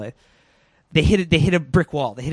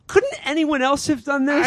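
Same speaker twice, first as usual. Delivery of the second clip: mock FBI agents; 10 semitones higher than usual. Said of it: "And they're like".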